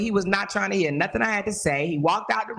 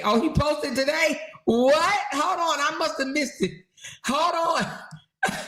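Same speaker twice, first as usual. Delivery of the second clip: surprised; 6 semitones higher than usual. Real, not acted. Surprised at news of post.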